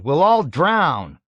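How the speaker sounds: high, loud, slow wail; panicked cry. A narrator's reading. Nately panicking in the mud, loud. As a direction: wail it in alarm. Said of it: "he cried".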